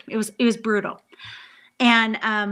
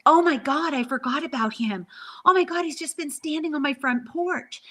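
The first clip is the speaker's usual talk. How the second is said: sudden alarmed realization; 5 semitones higher than usual. Retold or imitated. Retelling how she suddenly remembered the spirit on her porch, startled. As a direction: jolt as it suddenly comes back to you.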